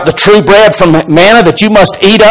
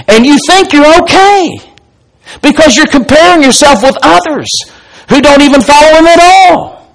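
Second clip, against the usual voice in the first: mock smug voice; 11 semitones higher than usual. Mocking self-satisfied churchgoer.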